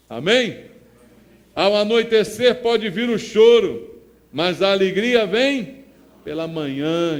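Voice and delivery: loud proclamation of the Psalm; a pastor booming Scripture from the pulpit; preaching at full force. Acted. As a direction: declare the verse to the church.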